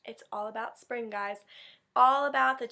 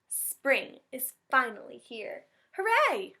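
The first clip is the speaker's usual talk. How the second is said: excited cheer; 3 dB louder, slower than usual. Acted. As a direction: cheer like a happy mouse. Mouse cheers spring arriving.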